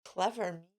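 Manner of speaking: soft, low, pleased murmur; mild sly murmur. A narrator's reading. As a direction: murmur it to yourself smugly. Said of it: "and murmured".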